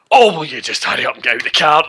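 imitating an impatient, quick grumble; mild irritation. Headmaster stuck in the back seat, mild irritation. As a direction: hurry them along, mildly fed up. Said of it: "There's just mild irritation".

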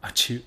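spoken achoo; fake sneeze. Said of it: "I said achoo".

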